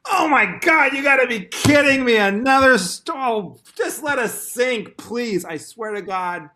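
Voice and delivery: high, loud panicked wailing; panicked whine. Retold or imitated. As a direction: wail like a captain losing it. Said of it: "it would just be all like".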